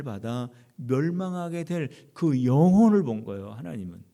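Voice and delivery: fervent pulpit proclamation; impassioned preaching. Real, not acted. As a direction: preach with urgent force, drawing out the key words. Preaches at full force.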